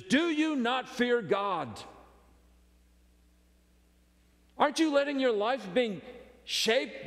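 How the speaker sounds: a thief's urgent rebuke; earnest rebuke. Retold or imitated. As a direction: press the question hard on a fellow thief. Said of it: "He says".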